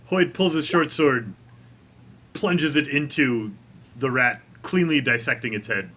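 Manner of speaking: measured scene-setting with dramatic pauses; game master narration. Acted. Game master describes Hoyd's sword strike to the players, measured narration. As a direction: narrate the kill in deliberate phrases.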